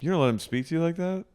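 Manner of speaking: high-pitched, incredulous scolding; mock outrage. Viewer scolding a mother over her rude son, incredulous. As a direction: pitch it way up, appalled at the parent.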